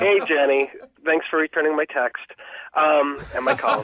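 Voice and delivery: pointedly thanking her, dry sarcasm; real sarcasm. Real, not acted. Ignored date greeting the woman who never replied, sarcastic. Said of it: "Is that sarcasm?".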